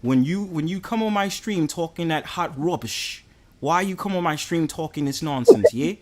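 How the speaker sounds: half-hearted London accent impression; mock London accent. Streamer mocking the British guest's talk on his stream, mock London accent. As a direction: mimic London phrasing to wind someone up. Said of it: "the way you do a little London accent".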